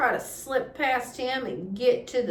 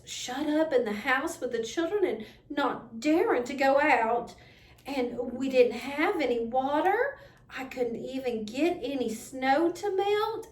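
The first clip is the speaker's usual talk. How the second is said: lightly voiced aunt, rising higher as she goes; lightly voiced Aunt Eliza, growing higher and more upset; a touch of frightened aunt; 4 semitones higher than usual. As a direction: tell it like a scared woman reliving the day. Aunt Eliza retells her fright.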